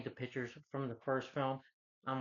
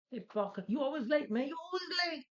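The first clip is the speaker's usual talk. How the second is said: high, loud mock boss yelling; irate boss; 3 dB louder than usual. Boss scolding his late pizza delivery employee, high-pitched angry yelling. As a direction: holler it as an exasperated boss.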